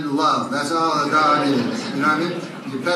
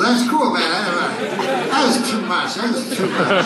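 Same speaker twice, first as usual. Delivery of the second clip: sulky dog; 4 semitones higher than usual. Acted. Dog voice, offended.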